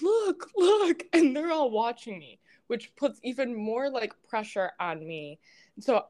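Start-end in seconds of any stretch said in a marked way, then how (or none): 0.0-1.0 excited calling. Retold or imitated. Onlookers calling out on the hill.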